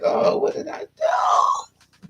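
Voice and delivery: high, slow, crying shout; mock wail. She wails over what she did, high mock crying shout. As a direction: wail it high like a hammed-up sob.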